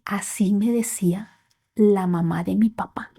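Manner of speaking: hushed, breathy near-whisper through tears; tearful whisper. Retold or imitated. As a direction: barely voice it, as if holding back crying. Mother whispers while crying.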